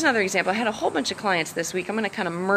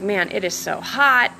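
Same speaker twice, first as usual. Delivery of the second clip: retold complaining; slower than usual. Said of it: "I just couldn't stop complaining".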